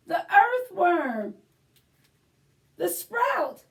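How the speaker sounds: put-on lively read-aloud for children; story time narration. A narrator's reading. Librarian reading to children, animated storybook voice. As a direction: read it like a picture book to little ones. Reads a picture book aloud.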